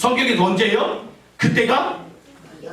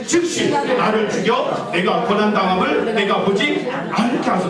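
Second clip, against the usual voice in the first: 함께 크게 봉독. Shown as a demonstration. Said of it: "같이 크게 읽어볼게요".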